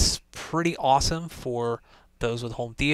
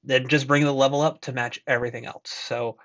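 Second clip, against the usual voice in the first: Jabra earbud mic; bluetooth headset mic. Real, not acted. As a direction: through bluetooth earbud microphone. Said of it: "test of the microphone on the Jabra Elite".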